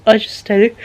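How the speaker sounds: talking through a yawn. Real, not acted. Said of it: "Sorry if I yawned".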